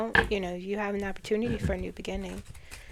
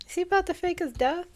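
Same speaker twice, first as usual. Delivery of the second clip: surprised; 10 semitones higher, 5 dB louder, faster than usual. Real, not acted. Startled reading of tarot cards.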